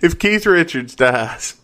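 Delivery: high, loud, slow announcer. Pretend. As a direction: announce it like a game show. Mock contest announcement, slowed.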